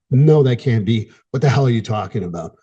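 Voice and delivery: mild mock anger, slowed on the first words; mock angry protest. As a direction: act out a light flash of anger at the news. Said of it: "Anger is the emotional protest".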